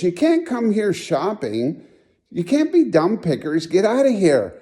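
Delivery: mildly hammed-up telling-off, pitched high; imitated scolding. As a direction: imitate a worker shooing trespassers away. Dump worker throwing them out.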